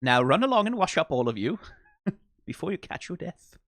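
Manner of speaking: fast, brisk parental order, laughing at the end; fond imitation of a fatherly command; dad mode. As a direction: shoo the kids off like a dad. Quoting dad-mode line.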